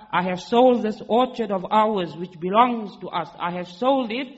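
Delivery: calling out loudly across the orchard; husband calling to his wife inside, loud; retold shout. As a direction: call out to her from outside the garden. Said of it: "he shouts out to his wife".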